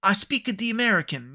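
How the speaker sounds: slightly high fake foreign English; mock foreign accent. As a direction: imitate a foreigner's halting English, lightly. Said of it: "then they're like".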